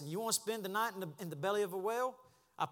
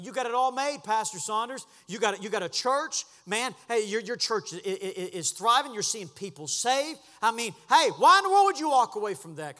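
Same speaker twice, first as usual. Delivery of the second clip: loud, incredulous mock objection; imitating doubters; 5 semitones higher, 11 dB louder than usual. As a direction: play the men scoffing at the pastor. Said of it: "men tell me".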